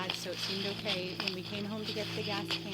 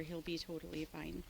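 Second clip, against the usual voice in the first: hushed real whisper, afraid of being heard; 3 semitones lower, 10 dB quieter than usual. Real, not acted. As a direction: keep it to a breath so nobody overhears. Whispering so he can't overhear.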